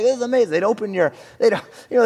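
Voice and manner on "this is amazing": lightly acted royal amazement, loud and high; amazed old king. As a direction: marvel a little like a visiting king. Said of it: "they'd be like".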